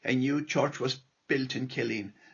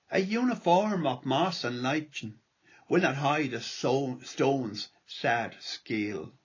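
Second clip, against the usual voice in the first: lilting irish storyteller. Acted. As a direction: recite the poem gently, like a storyteller. Reads his poem aloud.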